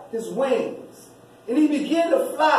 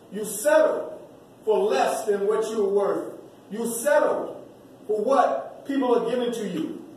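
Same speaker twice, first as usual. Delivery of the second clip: preacher presses the lesson on the congregation; preaching. Acted. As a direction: urge them to see their own worth. Preacher drives the point home.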